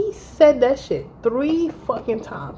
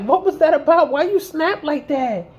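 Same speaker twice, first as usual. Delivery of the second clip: high-pitched mocking complaint, stretched at the end; imitated baffled boyfriend; 7 semitones higher than usual. Woman quotes boyfriend's text after the fight, mocking. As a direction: mimic his puzzled text in a raised voice.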